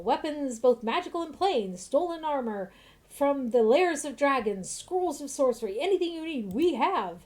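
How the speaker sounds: a hint of a proud shopkeeper's pitch; lightly voiced merchant. Shopkeeper boasting of his wares to customers, lightly voiced. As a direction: sell it like a mildly grand merchant.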